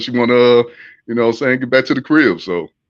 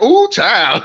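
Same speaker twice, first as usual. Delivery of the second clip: higher-pitched mock "ooh, child"; mocking impression; 7 semitones higher than usual. Imitating how they talk to crack up friends, mocking. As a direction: put on a teasing, raised voice to mimic them. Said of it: "mocking niggas. Y'all be like".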